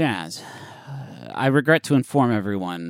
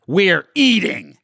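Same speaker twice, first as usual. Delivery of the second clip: deadpan celebrity voice; 8 semitones higher, 7 dB louder, much slower than usual. Retold or imitated. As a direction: drag it out like a bored star. Imitating Michael Shannon retort.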